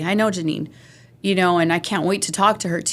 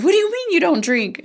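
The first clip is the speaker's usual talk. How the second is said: mock-shocked, pitched way up; incredulous question; 11 semitones higher than usual. Mimicking a partygoer shocked someone won't drink, high incredulous tone. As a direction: play the stunned partygoer in disbelief. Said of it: "someone says".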